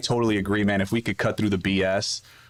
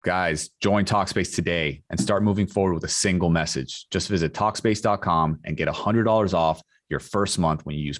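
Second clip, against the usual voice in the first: measured, lower podcast ad voice; sponsor ad read; 5 semitones lower than usual. Acted. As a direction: read the sponsor copy evenly and clearly. Podcast host reads sponsor ad.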